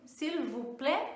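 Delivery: slow "s'il vous plaît" with audible l, silent s and t; "s'il vous plaît" sounded out as seel-voo-pleh; L heard, endings silent. Shown as a demonstration. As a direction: stretch "s'il vous plaît", keeping the l and dropping final consonants. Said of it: "você até ouve um pouquinho daquele L".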